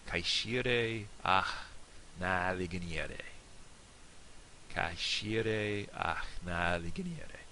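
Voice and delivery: slow Irish toast in a northern accent; northern Irish dialect. Shown as a demonstration. Teacher demonstrating the toast for learners, northern Irish dialect. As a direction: say it slowly with northern Irish vowels. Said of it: "for the northern dialect, I think it'll sound something like this".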